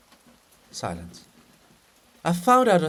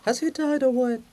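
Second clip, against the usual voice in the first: to himself; 10 semitones higher than usual. Acted. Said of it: "To himself".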